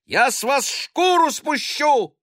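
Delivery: high, loud, slow threatening shout; angry threat. A narrator's reading. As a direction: threaten the boys with a loud cry. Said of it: "кричала сверху сиделка".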